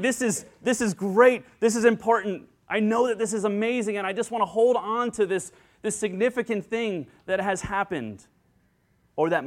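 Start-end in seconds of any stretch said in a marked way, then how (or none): 0.0-8.3 raised, emphatic, swept up in the moment; overwhelmed excitement. Acted. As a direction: gush like a parent at a birth. Voicing the overwhelmed parent at birth.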